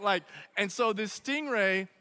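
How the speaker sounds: ordinary delivery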